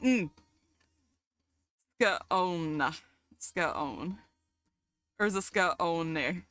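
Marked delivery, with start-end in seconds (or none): 2.0-6.4 "scone" stretched into two sounds, "ska-own"; exaggerated trial of "scone" as "ska-own"; playing with pronunciation. Shown as a demonstration. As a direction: say "scone" low and drawn out, "skuh-ohn". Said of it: "How do I pronounce that?".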